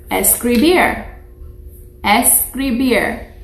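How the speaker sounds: teacher modelling escribir; Spanish word model. Shown as a demonstration. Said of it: "You try that with me?".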